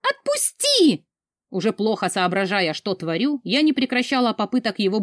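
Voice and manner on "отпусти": high, slow, stretched scream; drawn-out scream. Acted. Heroine screams at her guardian to let go. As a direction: drag it out, fighting his grip.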